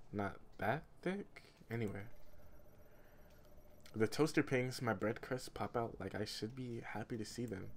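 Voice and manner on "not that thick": slow, incredulous echo with a rising question; slow sceptical repeat of the narrator's line; mocking echo. Real, not acted. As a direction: repeat it back in disbelief.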